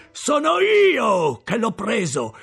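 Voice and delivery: high, slow, loud bragging; triumphant shout. Acted. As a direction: yell your claim so all hear. Convict boasting loudly.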